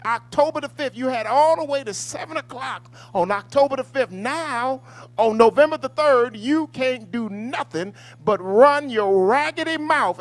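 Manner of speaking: loud, high-pitched angry tirade; upset scolding. Acted. Host scolding people who missed the deadline: loud, high angry rant. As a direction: lay into them at full volume. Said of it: "'cause I'm getting upset".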